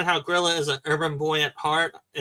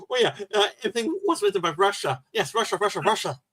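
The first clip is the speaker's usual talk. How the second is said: quick, higher, hammed-up patriotic ranting; mock Russian zealot; 4 semitones higher, faster than usual. Mocking the original series' nationalist character, higher and fast. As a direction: parody an overzealous Russian nationalist. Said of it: "overzealous Russian, uh, nationalism".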